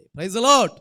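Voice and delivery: a big, loud call of praise to the church; shouted praise. Real, not acted. Preacher to congregation, a booming praise the Lord. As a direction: throw it out to the whole hall.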